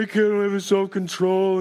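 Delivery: put-on helpless whine; exaggerated, complaining excuse-maker; mock whining. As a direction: whine it like someone making excuses. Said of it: "we whine about it".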